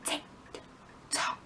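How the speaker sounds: slow ticking rhythm; clock ticking. Acted. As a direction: tick it out like a clock. Imitating the clock.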